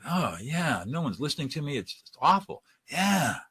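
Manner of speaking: plaintive, upset venting; acted sad complaint. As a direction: play someone feeling miserable and unheard. Acted upset person being de-escalated.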